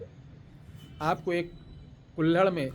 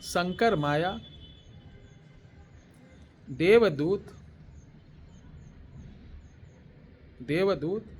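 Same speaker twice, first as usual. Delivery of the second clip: word by word, with long pauses; slow dictation. Shown as a demonstration. Teacher giving listeners a mantra to write down, slow dictation. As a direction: dictate it firmly, leaving time to write. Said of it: "धीरे धीरे बोल रहा हूँ".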